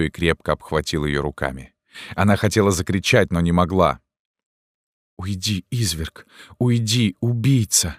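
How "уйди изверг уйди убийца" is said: trembling indignant whisper. A narrator's reading. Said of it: "шептала она дрожащим от негодования и ужаса голосом".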